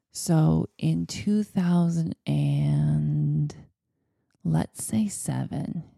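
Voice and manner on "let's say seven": soft whispered aside; a confiding whisper to the viewer. Real, not acted. Aside about the year.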